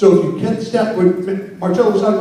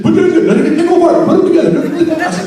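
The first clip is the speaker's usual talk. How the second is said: higher, louder "put your hands together"; mock hype call; 8 semitones higher, 5 dB louder, faster than usual. MC mocking cheesy crowd hype, loud and high. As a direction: pump up the crowd. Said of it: "which is just".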